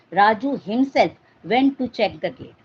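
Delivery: HIMSELF pressed firmly, set off from the rest; emphatic HIMSELF, as the one who did it; stress on HIMSELF. Shown as a demonstration. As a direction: put forceful weight on HIMSELF. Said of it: "if you are forcing this".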